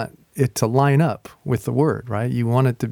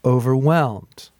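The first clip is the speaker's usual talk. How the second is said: slow, measured read aloud; gentle slow reading; slower than usual. Shown as a demonstration. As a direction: take it step by step, slowly. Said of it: "going slow".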